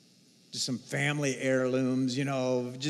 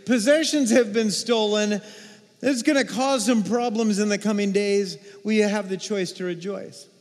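the Lord speaking; 5 semitones higher, 4 dB louder than usual. Retold or imitated. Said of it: "so the Lord says".

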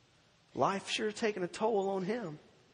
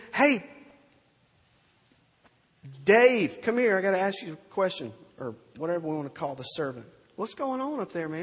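casual call; 5 dB louder than usual. Acted. Older son calling servant Dave over, louder and casual.

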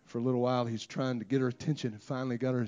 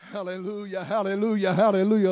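each hallelujah bigger than the last; building hallelujahs; 8 semitones higher, 9 dB louder than usual. Real, not acted. Calling congregation into worship.

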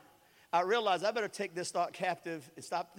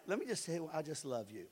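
softer, lower loving words; calm the storm by going soft; talking softer; 3 semitones lower, 5 dB quieter than usual. Retold or imitated. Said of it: "I keep talking softer".

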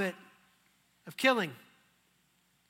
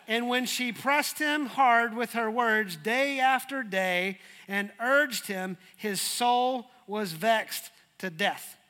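slow dramatic reading; slower than usual. Acted.

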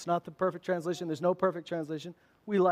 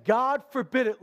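higher-pitched, emphatic protest; acted-out rebuke, pitched up; rebuking; 4 semitones higher, 4 dB louder than usual. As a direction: push it out as a firm objection. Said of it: "He began to rebuke".

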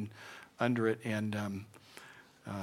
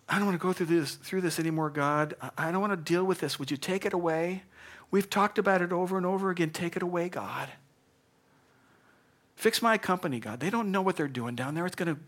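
higher, pleading voice begging God to take it away; whiny complaining prayer; 5 semitones higher than usual. Retold or imitated. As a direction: complain to God like a tired worker. Praying person voiced in complaint.

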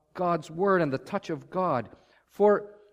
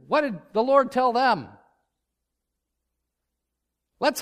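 Claire Davis quote; 6 semitones higher, 5 dB louder than usual. Retold or imitated. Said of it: "he would always say".

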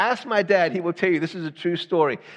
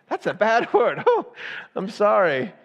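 higher, lightly acted child's reproach and apology; child's scolding, apology; 4 semitones higher than usual. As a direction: mimic a little one's correction, then apologise. Children's correction and his apology acted.

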